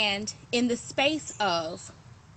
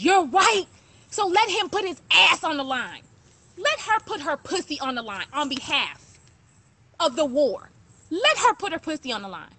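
impassioned; 3 semitones higher, 3 dB louder than usual. Real, not acted. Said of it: "I be trying not to talk like this".

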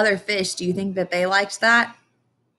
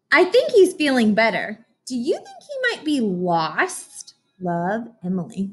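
Emily's letter voice; 2 semitones higher than usual. Acted. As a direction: sound like a proud little girl.

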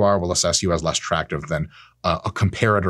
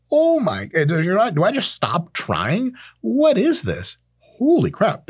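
much higher, stammering shock; mock panic; 11 semitones higher, slower than usual. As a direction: act flustered and overwhelmed. User shocked by AI truth.

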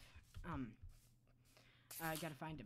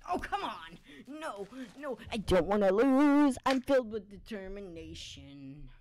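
loud, slow, desperate cry; desperate shout; 11 dB louder than usual. Real, not acted. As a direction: bellow it like a last stand. Desperate game moment.

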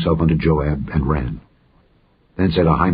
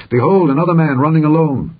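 raised, higher watchman's call; 8 semitones higher, 4 dB louder than usual. A narrator's reading. Watchman calls to the porter about a runner, calling out. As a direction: call it out high to someone below. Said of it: "the watchman called unto the porter".

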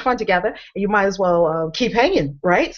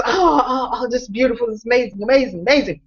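awed gasping; 4 semitones higher than usual. Pretend. Audience member at Cirque show.

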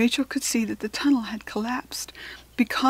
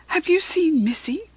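higher-pitched worried question; 7 semitones higher than usual. A narrator's reading. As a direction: ask with anxious concern. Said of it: "looking worried".

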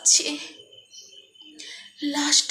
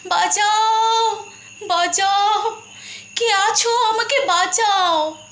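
higher, louder, desperate cry for help; screaming for help; 4 semitones higher, 3 dB louder, slower than usual. Retold or imitated. To anyone nearby, a desperate loud scream for help. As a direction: howl for rescue as she is being strangled. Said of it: "আমি চিৎকার করেছিলাম".

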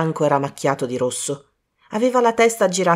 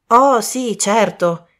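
a louder, uncertain yes; still puzzled; 4 semitones higher, 4 dB louder, much slower than usual. Acted. Colin answering Poirot, a bit perplexed. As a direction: agree while unsure. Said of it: "sempre un po' perplesso".

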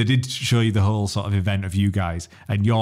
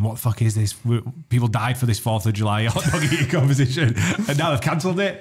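imitated online outrage, mildly heated; mock the indignant complainers, pitch lifting midway; kicking off; 2 semitones higher than usual. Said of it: "people kicking off on Twitter".

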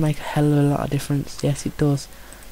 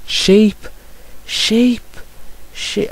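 excited call; 7 semitones higher, much slower than usual. Real, not acted. Gamer spotting sheep in his game, excited high call. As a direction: yell it out as if spotting treasure.

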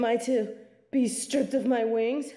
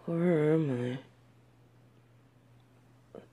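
much lower, slow, whispered; waking dazed, whispering; bewildered whisper; 10 semitones lower, 5 dB quieter than usual. Acted. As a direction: breathe the words, lost and confused. Disoriented waking in strange place.

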